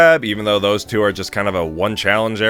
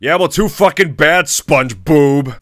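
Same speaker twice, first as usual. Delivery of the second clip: annoyed snap; 6 semitones higher, 5 dB louder, slower than usual. Acted. Snapping back at SpongeBob.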